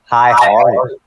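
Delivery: fake, smooth cartoonish voice. Playing the Grandmaster answering the door of his regular house, in a smooth SpongeBob voice. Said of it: "pure smooth SpongeBob".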